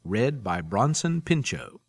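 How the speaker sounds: smooth announcer read of the audiobook intro; podcast promo read. Acted. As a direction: read it like a radio host introducing a serial. Podcast host reads promo and intro.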